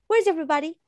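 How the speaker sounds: natural, contracted Where's, pitch lifting; contracted "Where's" said like the show; like Rachel says it. Shown as a demonstration. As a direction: model the line as the character. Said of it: "The same way she say".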